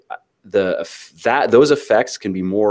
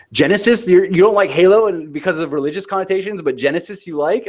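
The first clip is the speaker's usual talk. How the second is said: much higher, baffled questioning voice; mock outrage at the contradiction; high exasperated disbelief; incredulous disbelief; 11 semitones higher than usual. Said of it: "and I was like".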